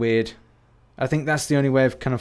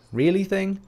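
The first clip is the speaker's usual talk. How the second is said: "Really thing?" higher, rising like a doubtful question; puzzled echo; 7 semitones higher than usual. Real, not acted. Doubting his own odd phrase, rising puzzled echo. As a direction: question your own slip of the tongue.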